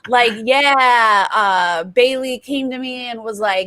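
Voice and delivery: hammed-up Jersey guy, hands up, talking fast; Enzo impression. Houseguest Enzo denying it all to Danny, mock Jersey accent. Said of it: "I'm toning down my Enzo impression".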